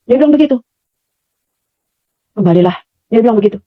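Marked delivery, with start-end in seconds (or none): 2.3-2.8 low, gentle imitation of the mysterious voice; soft, gentle voice. Mysterious voice urges her to return, gently. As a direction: gently call someone back, pitched low. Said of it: "pelan, suaranya pelan".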